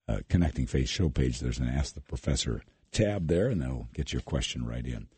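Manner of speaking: husky, low late-night radio voice; low, husky and hushed like late-night radio; sultry low voice. Real, not acted. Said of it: "I like this lower, sultry voice here".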